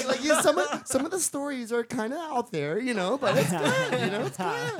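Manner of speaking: co-host's mom. Retold or imitated. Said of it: "She would be like".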